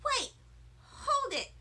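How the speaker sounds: hammed-up little-girl objection; upset protest. A narrator's reading. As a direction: cry out that it's not fair. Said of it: "I said".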